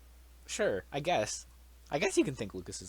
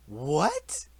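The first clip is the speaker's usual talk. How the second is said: high whispered disbelieving what; baffled what; 7 dB louder than usual. Real, not acted. Reacting to a friend's tier list, hushed high disbelief. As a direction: breathe out the word in disbelief.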